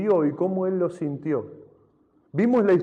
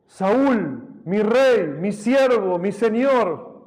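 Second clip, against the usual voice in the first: loud, higher, earnest call to the king; 5 semitones higher, 4 dB louder, much slower than usual. Acted. David calling to King Saul from afar, loud and reverent. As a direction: call out his name and titles with reverence.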